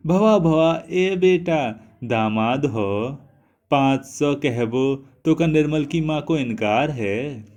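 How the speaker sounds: high, loud pleading village mother; coaxing mother. A narrator's reading. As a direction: coax the son-in-law loudly. Mother coaxing son-in-law, loud. (दामाद को मनाती ऊँची आवाज़)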